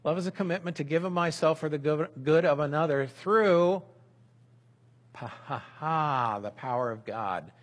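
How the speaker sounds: building energy on myself; emphatic definition. Shown as a demonstration. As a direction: read the definition like a rallying line. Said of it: "Here's our definition".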